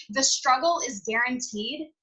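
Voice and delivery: slow, deliberate, each word weighted; slow motivational emphasis; slow emphatic repeat. Shown as a demonstration. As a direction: spell it out slowly so it sinks in. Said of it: "I'm gonna repeat everything twice".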